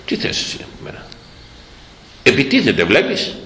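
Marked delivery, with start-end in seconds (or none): 0.1-1.1 hushed, whispered scorn; scornful whisper. Retold or imitated. Preacher voicing the scornful Samaritan woman as a whisper. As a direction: whisper it with contempt. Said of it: "μιλάει με περιφρόνηση".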